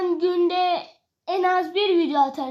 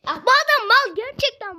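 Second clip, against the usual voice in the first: annoyed; 7 semitones higher, 3 dB louder than usual. Real, not acted. Annoyed at keeper not conceding.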